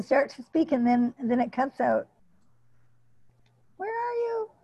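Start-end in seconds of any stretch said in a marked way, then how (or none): 3.8-4.5 choppy broken-up audio; connection cutting out. Real, not acted. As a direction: voice dropping out on a bad line. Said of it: "you keep cutting out on us".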